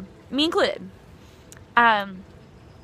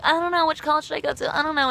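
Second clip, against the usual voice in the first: fast, higher fretful mock indecision; mock dithering; 5 semitones higher, faster than usual. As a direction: imitate a flustered, dithering student. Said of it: "everyone else was like".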